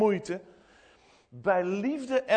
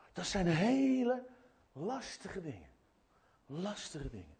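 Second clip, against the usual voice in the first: hushed, sombre; 6 dB quieter than usual. Real, not acted. Pastor dwelling on painful questions of faith, hushed and sombre. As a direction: drop to a soft, pensive murmur.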